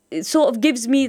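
ordinary delivery

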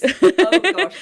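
real delighted laughter; laughing. Real, not acted. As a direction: burst out laughing. Host cracking up.

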